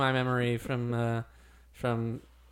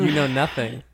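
Jon Snow line; 5 dB louder than usual. Retold or imitated. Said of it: "Can I do a Jon Snow voice?".

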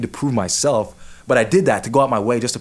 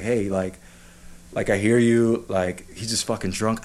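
comforting; slower than usual. Retold or imitated. Friend trying to comfort him at the campsite, mildly soothing. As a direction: play it down gently, slowing on the end. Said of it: "trying to come to my comfort".

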